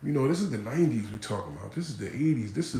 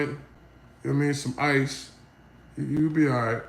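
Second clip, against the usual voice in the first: a hint of a no-nonsense mother; mock dismissive mom; 3 semitones higher than usual. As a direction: shrug it off like a tough old-school mom. Mother dismissing son's gunshot.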